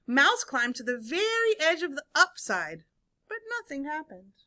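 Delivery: animated story reading with swooping emphasis and hushed letdowns; read-aloud storytelling. A narrator's reading. Teacher reads seesaw story to children, animated storytelling. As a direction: read it to young listeners with suspenseful pauses.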